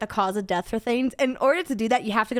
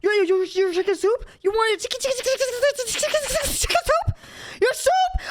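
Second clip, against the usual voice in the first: rising incredulous repetition; incredulous rising disbelief; 11 semitones higher than usual. Real, not acted. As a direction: voice climbing higher and higher. Mocking disbelief at chicken soup.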